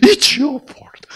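put-on crying child. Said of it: "울면서 막".

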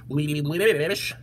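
bubbly, wavering fish voice; wobbly fish. Acted. Fish begin their plea, wobbly bubbly voice. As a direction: gargle it as a fish. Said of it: "said the fish".

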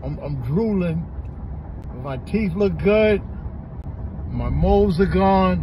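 numb from the dentist. Real, not acted. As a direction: talk through a numb mouth. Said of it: "my mouth is numb".

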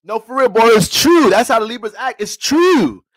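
loud, high insistence; emphatic shout. Real, not acted. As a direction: insist it's true, full volume. Insisting loudly on his point.

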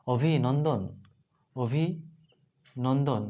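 drawn-out demo. Shown as a demonstration. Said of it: "আমাদের".

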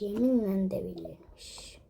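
slow whispered despair. Real, not acted. Wife fed up with husband, slow whisper. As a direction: whisper it slowly, exasperated.

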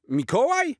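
put-on very high, thrilled child cry; excited call. Jaś finding Santa on the roof, very high excited call. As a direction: gasp out his name in wonder. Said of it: "krzyknął Jaś podekscytowany".

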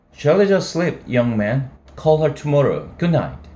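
stern grandmother. Acted. Grandmother dismissing caller.

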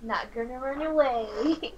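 slow, soft reassurance; reassuring. Acted. Hugging him and promising to stay, reassuring. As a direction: comfort them softly, in no hurry. Hugs and comforts him in character.

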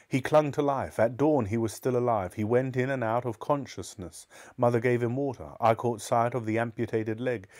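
measured, serious storytelling voice; composed audiobook-style reading; story narration. A narrator's reading. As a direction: read the grim tale evenly and deliberately. Reads a story aloud.

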